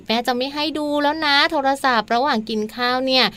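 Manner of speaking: lightly voiced mother laying down a rule; a hint of a calm, firm mum; imagined mother's voice. Shown as a demonstration. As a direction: explain the rule as an idealised mother. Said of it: "อันนี้เสียงคุณแม่เหรอ".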